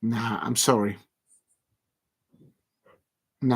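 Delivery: usual speaking voice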